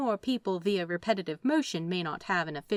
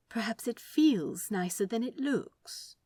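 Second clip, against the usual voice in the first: tentatively; 4 semitones higher than usual. Acted. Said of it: "he says tentatively".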